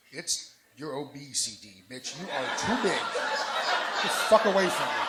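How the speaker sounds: slow, building to a loud mock shout; telling her off with hammed-up disgust; mock harsh rejection. Retelling what he told Jasmine.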